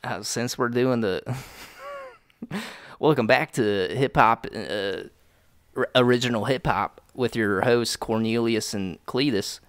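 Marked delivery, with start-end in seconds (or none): 3.0-9.6 mock Southern country accent, hosting a show. Podcast host opening the show in jokey country accent. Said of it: "now I'm doing the fucking country accent".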